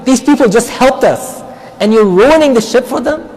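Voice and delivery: mock-outraged cry at the teacher; outraged protest. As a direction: retell Musa's shocked outburst with real heat. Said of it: "goes crazy".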